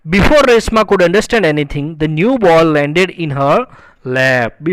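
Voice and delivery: slow, measured English reading; story read-aloud. A narrator's reading. Teacher reading a story sentence to students, slow read-aloud. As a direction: read each phrase out slowly and deliberately.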